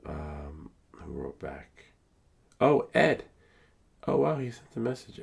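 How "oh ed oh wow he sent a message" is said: excited. Real, not acted. Finds a reply from Ed.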